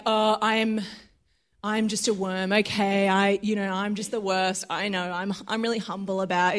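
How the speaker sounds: small, subdued, self-abasing voice; doubting false humility. Acted. Voicing someone who calls themselves a worm, soft self-doubt. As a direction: shrink it down softly, as if unworthy. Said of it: "a doubting".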